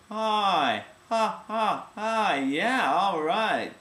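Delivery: high, loud and edgy; edgy but no glottal attack. Shown as a demonstration. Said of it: "You can say".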